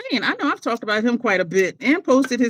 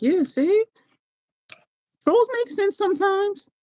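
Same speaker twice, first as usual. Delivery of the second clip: vindicated; 13 semitones higher than usual. Retold or imitated. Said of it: "I'm like".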